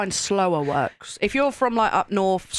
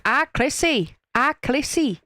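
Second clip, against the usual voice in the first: higher-pitched mock Northern uncle; imitated Northern uncle; 6 semitones higher than usual. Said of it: "my uncle would call me".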